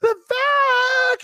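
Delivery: very high, loud excited squeal; mock excited greeting; squealed name. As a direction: squeal it like a thrilled fan. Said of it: "will be like".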